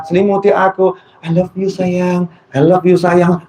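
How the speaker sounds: lightly hammed-up soap-opera lover; mock romantic lover. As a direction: tease the empty romantic talk. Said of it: "Gak ngaruh".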